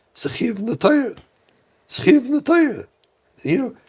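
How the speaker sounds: imitated high-pitched pleading; baffled protest. Puzzled father questioning a panel speaker, high-pitched protest. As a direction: push the voice way up in protest.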